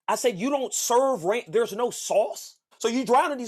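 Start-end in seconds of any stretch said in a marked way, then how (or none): 0.4-2.6 slow disbelief. Retold or imitated.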